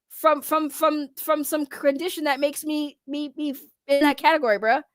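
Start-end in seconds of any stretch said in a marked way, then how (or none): 0.1-3.6 tripping over repeated words; stammering, restarting words; stuttering. Real, not acted. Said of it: "I'm stuttering".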